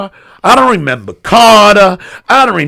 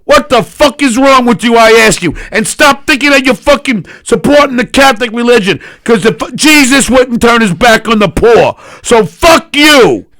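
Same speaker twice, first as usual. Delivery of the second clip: heated ranting tirade; angry rant; 2 semitones higher than usual. Real, not acted. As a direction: rant at them, furious.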